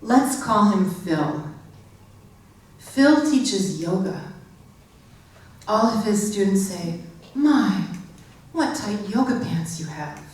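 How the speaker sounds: deliberate comic poem reading with pauses; measured, deadpan recital to an audience; poetry reading. Acted. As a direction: recite it line by line, pausing for the joke. Reads own comic poem.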